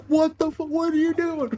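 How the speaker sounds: high, incredulous outburst; shocked party. Retold or imitated. Party members stunned by the reckless charge, high and incredulous. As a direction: react like you can't believe it. Party reacting in retold game.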